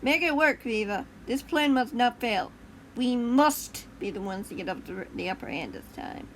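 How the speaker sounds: loud, commanding villain shout. Acted. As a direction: bark the orders across the room. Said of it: "he shouted".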